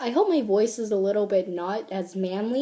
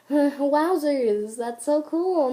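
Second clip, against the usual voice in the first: higher, forced enthusiasm; awkward enthusiasm; 4 semitones higher, 4 dB louder, much slower than usual. Acted. In an awkward conversation, falsely enthusiastic. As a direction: feign being impressed to fill an awkward gap. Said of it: "use in those awkward conversations".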